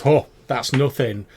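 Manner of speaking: tip off the traveller with a wink; amused merchant voice; knowing goblin warning. Acted. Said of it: "He says".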